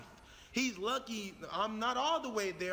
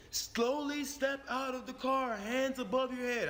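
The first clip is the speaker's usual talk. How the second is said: police officer command; 3 semitones higher than usual. Acted. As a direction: direct a suspect out of the car, measured. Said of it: "one of the officers said".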